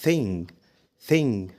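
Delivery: "thing" ending on the nasal, no hard g; silent final g. Shown as a demonstration. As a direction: keep the g of "thing" unsounded. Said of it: "وفي كلمات تانية برضو زي كلمة".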